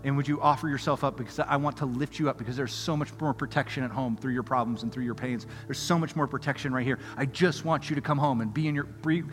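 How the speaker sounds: soft, low fatherly appeal; quiet, earnest invitation; tender pleading. Acted. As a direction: gently urge a child to come home. Voices God pleading with his child.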